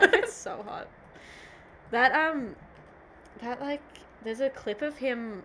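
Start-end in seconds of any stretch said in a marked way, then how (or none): 0.0-0.9 high, loud swoon over a crush; breathless fangirl squeal. Real, not acted. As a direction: gush it out, pitched way up. Swooning over Brad Pitt.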